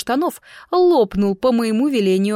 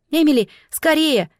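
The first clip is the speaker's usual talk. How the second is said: high call across the hall; shout; 7 semitones higher, 3 dB louder than usual. A narrator's reading. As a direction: call out to her friend, hurrying. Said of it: "крикнула в ответ Кэрри". (зовёт подругу, громко окликая)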